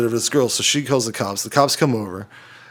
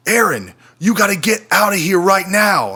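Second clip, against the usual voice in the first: higher-pitched mock urgent warning; imitating panicked coworker; 6 semitones higher than usual. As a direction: act out a panicking coworker ordering an evacuation. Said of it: "this is how she approaches the situation".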